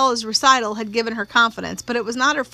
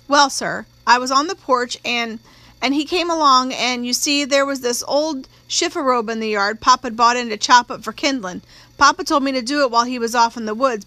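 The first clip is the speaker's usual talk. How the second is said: put-on slightly raised, rambling country-girl testimony; lightly voiced country-girl witness. Young witness answering the prosecutor about the porch, lightly voiced country girl. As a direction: lightly play an unschooled witness telling her story.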